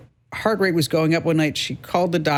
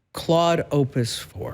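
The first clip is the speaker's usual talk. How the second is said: savoring smart name; slower than usual. Acted. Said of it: "doesn't that sound smart?".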